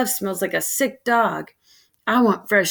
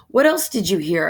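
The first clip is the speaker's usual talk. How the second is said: mocking sing-song. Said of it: "I mock Richard in a sing-song voice".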